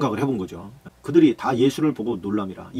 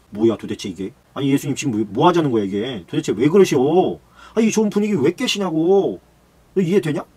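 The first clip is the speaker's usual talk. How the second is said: grumbling disciples; 5 dB louder than usual. Acted.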